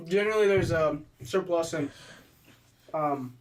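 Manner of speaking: talking while chewing; words round a bite of food; mouth full. Real, not acted. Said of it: "oh, I'm chewing".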